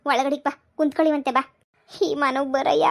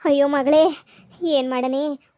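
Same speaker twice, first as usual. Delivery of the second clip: loud lament; 4 dB louder, slower than usual. Acted. Mother laments daughter's plight.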